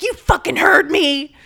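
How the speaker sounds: loud, high, slow furious retort; patient furious at the nurse, slow angry retort; angry snap. Retold or imitated. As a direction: bite each word out at her. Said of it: "she's like".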